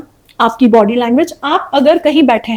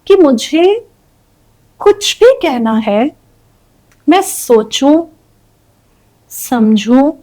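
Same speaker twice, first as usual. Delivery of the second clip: too slow; slower than usual. Shown as a demonstration. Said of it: "जल्दी बोल".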